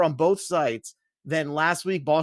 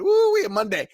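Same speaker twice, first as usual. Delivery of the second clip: put-on Southern redneck accent; 5 semitones higher than usual. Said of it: "trying to sound like a redneck".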